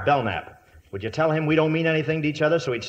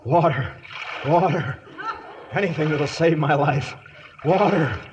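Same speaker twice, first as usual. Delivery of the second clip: hammy dying traveller. Acted. Hammed desert crawl.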